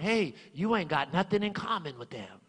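lightly voiced devil needling him; mock devil muttering doubts; devil's whisper. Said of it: "the devil will whisper in my mind".

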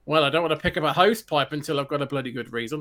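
accidental light Australian twang on the quote; slight Australian accent. Acted. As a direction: voice the character with a hint of Australian. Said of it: "did sort of an, um, Australian accent a bit there".

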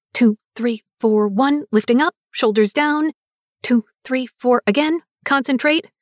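loud counts as if mid-step; dancing while talking. Acted. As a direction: call the steps while moving. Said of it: "sounds like she's actually talking while dancing".

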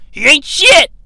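high, loud imitated yell; Mike Awesome yelling. Recapper quoting the wrestler over a downed opponent, mock yell. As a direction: throw it out as a wrestler's taunt. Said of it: "Awesome yells".

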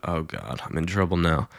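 low, hushed thought to himself; inner dread. Retold or imitated. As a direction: mutter it under your breath, imitating worry. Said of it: "so he thought".

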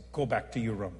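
low, measured command; the Lord. Retold or imitated. The Lord telling the preacher to leave his meal, low and measured. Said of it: "I heard the Lord say".

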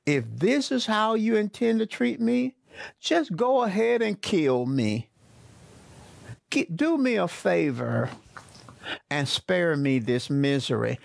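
hammed-up despair, then tired; discouraged Moses. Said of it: "You can tell he's discouraged".

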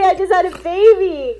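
retold outcry. Just gave birth, asked to work.

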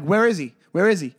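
ready to fight. Retold or imitated. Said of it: "I was ready to punch this dude".

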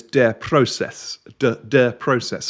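"Der Prozess" said as German words; German pronunciation. Shown as a demonstration. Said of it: "in German is".

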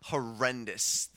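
congested, nasal voice; blocked-up nose from a cold; stuffy nose. Real, not acted. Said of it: "my nasal congestion is ridiculous".

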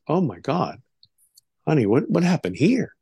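mildly acted worry; concerned mother. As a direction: imitate a mother's startled question. Mother discovers the child's wound.

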